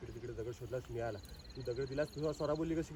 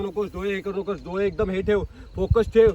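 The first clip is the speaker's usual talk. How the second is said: urging; 3 semitones higher, 8 dB louder than usual. Real, not acted. Director coaching child actor's focus.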